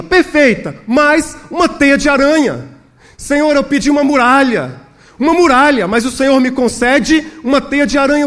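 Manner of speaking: high, impassioned protest to God; insistent prayer. Acted. Pastor questions God over the spider web, insistent. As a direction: plead in bewilderment, pressing each phrase. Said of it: "ele ora com mais insistência".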